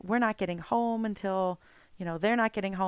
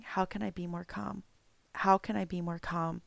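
quiet self-question; 6 dB quieter than usual. Retold or imitated. Asking herself in frustration.

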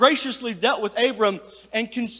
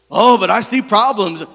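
doubting complaint; 10 dB louder than usual. Retold or imitated. Preacher voices doubters' complaint.

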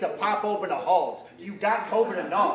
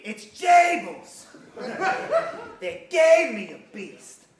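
whisper yelling; 2 semitones higher, slower than usual. Retold or imitated. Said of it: "whisper scream your bars".

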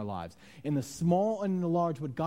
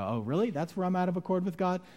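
rising, higher mock-revelation voice; mock surprise; 5 semitones higher than usual. Churchgoer supposedly hearing a mysterious word, mock surprise. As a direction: play at sudden realization.

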